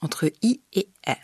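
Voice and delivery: "I et E" said with the lax in-between vowel; demonstrating the in-between vowel. Shown as a demonstration. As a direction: glide from i toward e. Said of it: "plutôt proche du son E".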